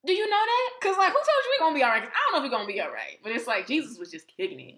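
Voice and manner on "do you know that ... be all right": high, loud, fast comic freak-out; mock panic. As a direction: challenge him like you're scared out of your wits. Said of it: "we just all scared".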